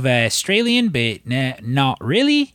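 imitated Kiwi accent with twisted vowels; loosely mimicked New Zealand lilt. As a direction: try a half-Australian New Zealand accent. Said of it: "speaks in the New Zealand accent".

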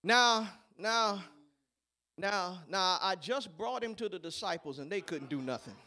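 hushed, low father voice; soft and low. Acted. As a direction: drop it to a near murmur. Quiet aside, father's voice.

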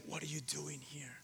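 soft unvoiced whisper of God. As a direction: breathe the question. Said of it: "It was a whisper".

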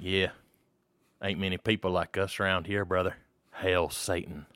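low, confiding southern metalhead; lightly done Southern good-old-boy; southern redneck accent. Retold or imitated. Redneck stranger confiding to the metal fan, southern accent. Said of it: "southern accent shit".

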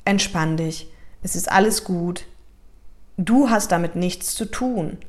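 put-on slow, tender reassurance to a scared child; calm the little one down gently; soothing. Shown as a demonstration. Coach soothing her inner child, slow and tender. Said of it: "also ich sag dann zum Beispiel immer sowas wie".

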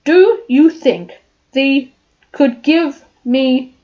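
lightly voiced lion, timid and stammering; Cowardly Lion. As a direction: read the lion's lines with a nervous stammer. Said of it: "I am the Cowardly Lion".

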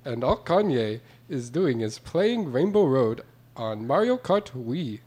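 put-on, off-target Canadian accent. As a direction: read it in a mock Canadian accent. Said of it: "you're doing a Canadian accent".

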